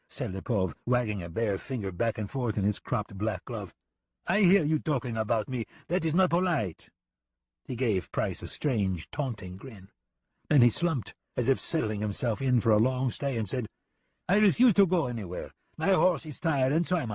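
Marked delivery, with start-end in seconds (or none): 4.3-6.9 high, sneering and amused; a smug, taunting killer; mocking foreign gunman. Lipov's character voice. 14.3-17.1 high, sneering and amused; a smug, taunting killer; mocking foreign gunman. Lipov's character voice.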